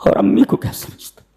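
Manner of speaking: hushed mock of today's youth; whispered mockery. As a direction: whisper it with scorn. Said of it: "ये आजकल के नौजवान हैं". (फुसफुसाकर नौजवानों की नकल)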